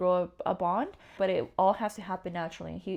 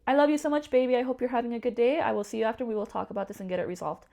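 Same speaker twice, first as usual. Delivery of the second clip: calm; 4 semitones higher, 3 dB louder than usual. Retold or imitated. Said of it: "he was just calm".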